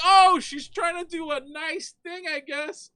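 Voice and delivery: high, naive mock voice; high-pitched hammed-up innocence; timid reasoning. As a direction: squeak out an uncertain rationale. Acts out his timid reasoning.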